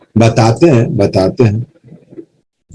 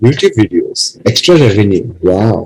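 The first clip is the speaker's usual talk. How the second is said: lightly voiced wife, pitched lower; imitated wife; 4 semitones lower than usual. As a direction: play the wife repeating the sales pitch. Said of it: "She's like". (पत्नी की हल्की नकल, नीची आवाज़ में)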